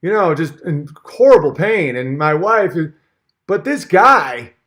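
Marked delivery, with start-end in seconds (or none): 0.0-2.9 lightly lampoon Peterson's earnest tone, eh; Peterson impression. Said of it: "Peterson's like".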